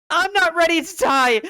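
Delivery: high, loud scream of refusal; terrified shouting; desperate shout. Acted. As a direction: scream out against dying. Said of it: "I shouted that".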